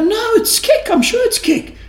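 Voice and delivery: very high, laughing, over-sure protest; laughing mock insistence. Teacher insisting to a student that geri means kick, laughing. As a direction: play up the certainty while laughing.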